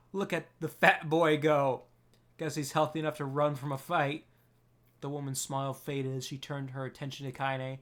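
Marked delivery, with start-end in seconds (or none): 0.1-4.3 mocking. Old woman mocks fleeing boy.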